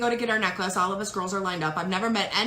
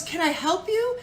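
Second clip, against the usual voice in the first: high, sweet, motherly coo; Stacy's sweet voice; 8 semitones higher, slower than usual. Retold or imitated. Stacy comforting the crying wife, high and sweet. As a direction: coo it like a kind friend, pitched up. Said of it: "You know how Stacy is in that voice".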